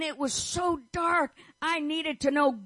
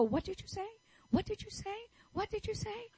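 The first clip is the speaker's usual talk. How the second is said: a lightly voiced puzzled listener, softer and higher; 7 semitones higher, 10 dB quieter, faster than usual. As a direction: mimic people straining to hear. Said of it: "people would go".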